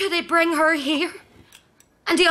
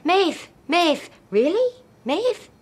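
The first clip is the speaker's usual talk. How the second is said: disgusted repeating of a name; 3 semitones higher, slower than usual. Real, not acted. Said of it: "Why does your mother make that sound?".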